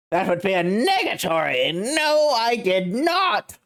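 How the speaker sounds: lofty, amused rich man; pompous CEO voice. Acted. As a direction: look down on the lawyer with a chuckle. Red White denies.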